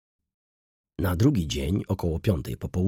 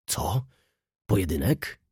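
sudden surprised question, rising; astonished exclamation; startled cry. A narrator's reading. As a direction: jump at the word in shock. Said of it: "krzyknął z błyszczącymi oczyma".

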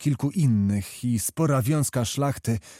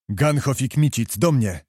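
terrible roar. Acted. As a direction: bellow the order to the guards. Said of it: "ryknął straszliwym głosem".

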